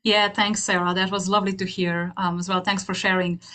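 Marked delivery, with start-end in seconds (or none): none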